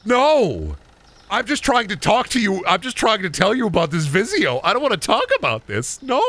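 high, flustered mock self; high-pitched flustered protest; flustered retail worker. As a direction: squeak out a panicked refusal. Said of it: "And it's like".

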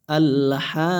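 "আল হা" chanted with a drawn-out final vowel; madd elongation. Shown as a demonstration. Teacher shows one-alif madd, stretching "হা". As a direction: hold the "হা" in "আল হা" long and level. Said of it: "এক আলিফ মদ হবে".

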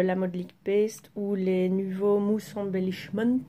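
product names read in a self-mocking English accent. Shown as a demonstration. Vlogger reading English product names, in a mock English accent. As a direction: put on a jokey English accent for the brand names. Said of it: "Avec mon accent anglais parfait".

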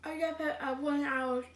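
talking with mouth full of chocolate; words muffled by a mouthful. Real, not acted. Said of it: "Wait till you finish your mouthful".

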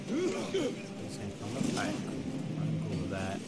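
slurring a bit, tipsy and loose. Real, not acted. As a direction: talk like you've had a few too many. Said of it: "Yeah, I'm super drunk right now".

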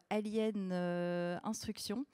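French speaker putting on a jokey English accent for a record title. Shown as a demonstration. DJ presenting a record title to viewers, in a playful English accent. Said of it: "avec mon super, euh, accent anglais".

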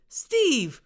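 high, loud call; shouted. Acted. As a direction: yell his name.

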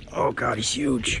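slow, whispered awe; awed whisper. Real, not acted. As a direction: breathe it, amazed. Awed at huge fish.

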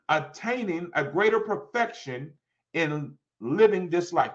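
slow, phrase-by-phrase declamation; emphatic scripture reading. Real, not acted. Preacher reading on walking to please God, slow and deliberate. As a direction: read it deliberately, pausing between phrases.

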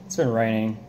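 talking with dip in lip; chewing tobacco. Real, not acted. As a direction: speak around a lip of dip. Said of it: "we're gonna pack the lip".

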